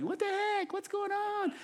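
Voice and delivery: high-pitched, put-on panicky sheep voice; bewildered sheep. Preacher voices the sheep being pulled out, bewildered. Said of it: "and the sheep's like".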